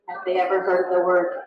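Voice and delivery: dry, flat question; deadpan. Retold or imitated. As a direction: ask it bone dry. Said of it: "he goes completely deadpan".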